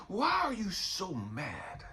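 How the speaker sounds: slow, falling repeat of the question; a patient God pressing the point; slowed, settled God on mad. Retold or imitated. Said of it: "I hear God answering me".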